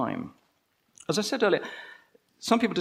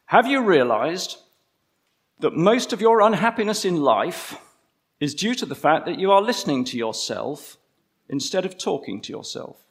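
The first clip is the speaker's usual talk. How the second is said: put-on quoted preacher, no accent; 2 semitones higher, 5 dB louder than usual. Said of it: "I won't do his accent".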